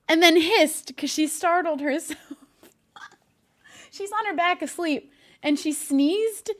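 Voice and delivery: whispering so as not to wake the cat; hushed unvoiced whisper. Real, not acted. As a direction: whisper it over a sleeping cat. Cat asleep nearby.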